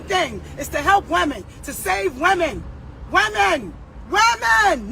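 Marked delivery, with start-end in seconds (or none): 3.1-4.9 shouting. Real, not acted. Ranting to her followers, shouting. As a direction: yell it out to the crowd. Rant about women's safety, shouting.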